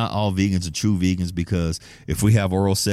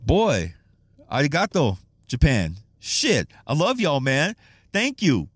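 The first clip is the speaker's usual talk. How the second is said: high, delighted thanks to Japan; excited thanks; 6 semitones higher than usual. Real, not acted. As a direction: beam gratitude at fans.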